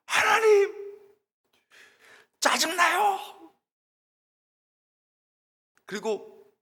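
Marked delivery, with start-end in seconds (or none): 0.1-3.5 high, shouted complaint to God; exasperated prayer. Retold or imitated. Student venting honestly to God in prayer, exasperated shout. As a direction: yell out pent-up frustration, stretched out. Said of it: "솔직하게, 사람들한테 얘기 못하니까".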